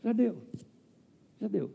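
tired, resigned "já deu" repeated; weary sigh. Retold or imitated. Pastor voicing his burnout, tired and resigned. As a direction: let it out like someone worn down. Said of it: "era aquela sensação assim".

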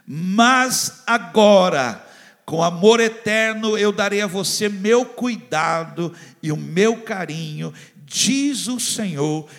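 slow, loud, heavily stressed scripture reading; emphatic reading. Acted. Preacher reading the promise aloud, emphatic and slow. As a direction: proclaim each phrase with weight. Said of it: "eu li com uma entonação mais forte".

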